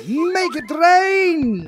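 high, drawn-out hammed-up shout; big showy yell; triumphant cheer. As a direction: holler it long and high, stretching each word. Cheering over fifty tokens in game.

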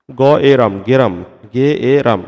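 গ এ রাম, each sound said apart, then গেরাম blended. Shown as a demonstration. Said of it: "এরকম হচ্ছে উচ্চারণটা". (ধ্বনি ভেঙে ভেঙে উচ্চারণ)

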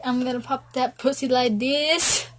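mildly mocking quote, rising at the end; imitated yelling. Girlfriend reciting boyfriend's stuck song, mock yelling. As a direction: lightly imitate a hollered lyric. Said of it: "yelling it out yesterday".

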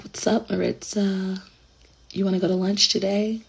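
put-on prim well-spoken girl greeting a friend; proper English voice. Shown as a demonstration. Old proper self asking Maritza to lunch, soft and proper. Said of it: "It was very proper English".

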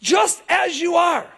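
slow ringing invitation; God's call. Retold or imitated. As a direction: proclaim it as God inviting. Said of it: "And God is saying".

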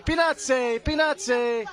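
put-on Italian-accented peanut hawking; talking in Italian. Vendor demonstrating Italian talk, accented peanut call. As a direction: sing out each word with an Italian "eh". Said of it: "you gotta talk in Italian".

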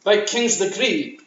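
rhythmic Scottish verse recital; poem recital. Acted. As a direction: declaim the couplets crisply in Scots.

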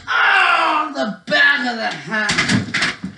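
drawn-out ringside commentator's reaction; shocked play-by-play. Pretend. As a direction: cry out at the blow. Mock commentary on a hit.

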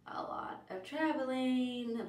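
slow whispered aside; hushed and drawn out, half playful. Real, not acted. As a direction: drop to a breathy whisper on the words.

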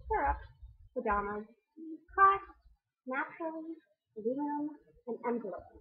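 rattling off the word list quickly; fast. Shown as a demonstration. Reading her accent-tag word list quickly for viewers. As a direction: read the accent-tag words at a brisk clip. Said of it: "I hope I didn't say this too fast".

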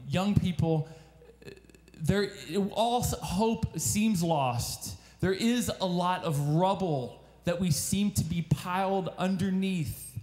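earnest sermon appeal, lifted and steady; preacher's call to the congregation; preaching appeal. Acted. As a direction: plead with the young people to come near to God.

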